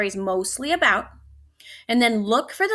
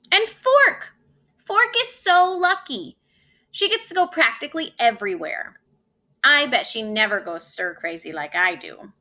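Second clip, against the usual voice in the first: envious whine. Acted. Spoon envies Fork.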